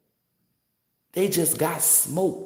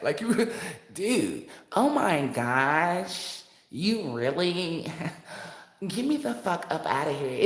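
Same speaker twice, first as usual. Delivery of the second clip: laughing mock white-guy disbelief. Mocking a hater in a laughing put-on white voice. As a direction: giggle through a put-on white voice. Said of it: "put your Y T voice on it".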